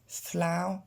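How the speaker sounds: flower said as one glided sound, flao; flower with the ow glide, no French r; English flower. Shown as a demonstration. Teacher models flower for French learners, clear English vowel. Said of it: "pour bien décomposer".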